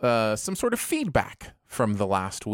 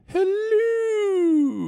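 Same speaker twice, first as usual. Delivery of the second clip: much higher, stretched-out "Hello"; high signature greeting; 4 dB louder than usual. Shown as a demonstration. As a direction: sing out a long, high "Hello" as a catchphrase. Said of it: "I'll often do the".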